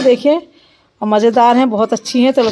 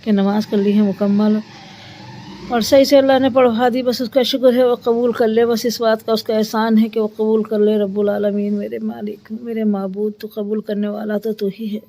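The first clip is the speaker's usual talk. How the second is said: thankful prayer; 2 semitones lower, 4 dB quieter than usual. Real, not acted. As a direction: give humble thanks to God, mostly subdued. (विनम्रता से धीमी आवाज़ में दुआ)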